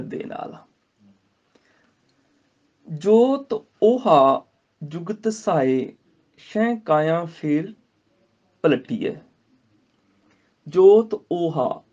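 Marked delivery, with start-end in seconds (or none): 2.9-9.2 slow measured Gurbani recitation. Shown as a demonstration. Teacher recites the verse to students, slow. 10.7-11.8 ਜੋਤ ਓਹਾ slow, then stop on ਓਹਾ; pause after ਓਹਾ. Shown as a demonstration. Teacher shows the pause after ਜੋਤ ਓਹਾ. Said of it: "ਓਹਾ ਦੇ ਉੱਪਰ ਰੁਕਣਾ ਹੈਗਾ".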